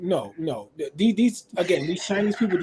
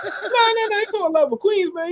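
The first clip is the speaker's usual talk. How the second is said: laughing; 13 semitones higher than usual. Real, not acted. Laughs at Queens joke.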